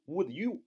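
"would you" as two separate words; unlinked "would you". Shown as a demonstration. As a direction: keep "would" and "you" apart, no j sound between. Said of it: "不读would you啊".

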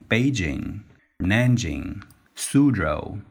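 Beijing, Nanjing and Suzhou said with English stress, no Chinese tones; English-style city names. Shown as a demonstration. Teacher deliberately gives city names an English lilt. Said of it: "故意说成英语的那个调调".

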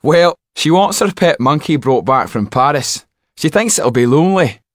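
high, loud gossiping footman; footman's voice. Acted. Footman tells coachman about the monkey, high gossiping voice.

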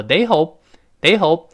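they hope slowly, p held without burst; unreleased hope. Shown as a demonstration. Teacher demos lost plosion in they hope. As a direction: close lips on hope, don't release. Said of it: "失去爆破".

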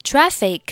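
Traffic ending without a released k, said high; dropped final k. Shown as a demonstration. Teacher showing Traffic without the final k. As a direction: swallow the k at the end of Traffic. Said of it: "末尾有一个k的音，可以不用发出来".

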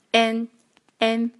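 and as "an", d unreleased; dropped plosive. Shown as a demonstration. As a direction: leave the d of and silent. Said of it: "就不要读出来了".

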